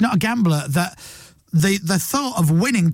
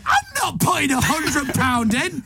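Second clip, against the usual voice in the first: mock stingy voice; 9 semitones higher than usual. Mocking colleague's stingy reaction.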